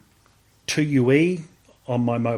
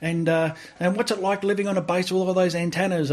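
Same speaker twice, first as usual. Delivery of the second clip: higher, softer, sly probing question; prying reporter; 6 semitones higher, 3 dB quieter than usual. Retold or imitated. Reporter probing about the wife's base, sly. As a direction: fish for secrets like a nosy journalist.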